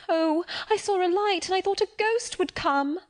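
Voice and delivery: put-on terrified child. Terrified child explains her scream.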